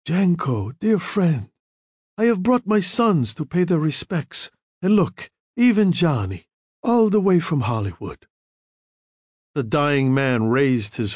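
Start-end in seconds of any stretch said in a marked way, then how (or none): 0.0-8.3 higher-pitched, cheerily voiced Don; lightly acted good cheer; cheery greeting. A narrator's reading. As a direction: greet an old friend cheerily. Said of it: "Don Corleone said cheerily".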